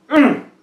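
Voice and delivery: short, high, loud grunt; king's grunt. A narrator's reading. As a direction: grunt sharply like a thwarted king. King's wordless reaction to wizard.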